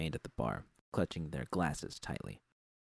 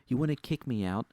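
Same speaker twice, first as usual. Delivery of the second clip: WANNA leaned on, heated and daring; angry challenge; 5 semitones higher, 3 dB louder than usual. A narrator's reading. Narrator daring boss Susie to fire him, angry. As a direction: throw "wanna" at her like a dare.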